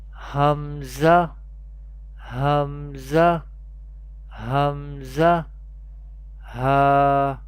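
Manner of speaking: careful Arabic Hamza and Ha from the bottom of the throat; bottom-of-throat letters. Shown as a demonstration. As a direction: demonstrate Hamza and Ha slowly, one by one. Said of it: "pronounced from the bottom part of the throat".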